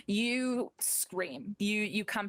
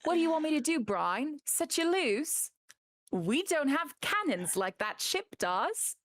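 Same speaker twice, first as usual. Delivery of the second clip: higher, half-laughing exasperation; captain scolding a squirming crewmate; exasperated captain; 6 semitones higher than usual. Acted. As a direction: tease him while scolding. GM playing Gemma, amused.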